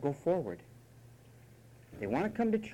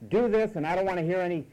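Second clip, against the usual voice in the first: brisk, no-nonsense order, acted; mock paternal command; stern fatherly authority. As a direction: lay down the law like a father. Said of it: "spoken to with authority and said".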